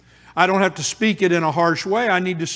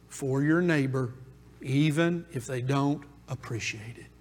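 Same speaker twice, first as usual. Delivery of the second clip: softer, intimate preaching; soft sermon; 5 semitones lower, 6 dB quieter than usual. Acted. Preacher quietly urging the church to put others first, soft. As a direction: draw the church in close, gently.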